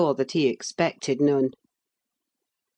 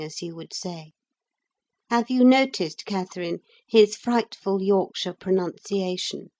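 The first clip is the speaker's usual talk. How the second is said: sneering; 4 semitones higher than usual. Acted. Linton mocking to Catherine.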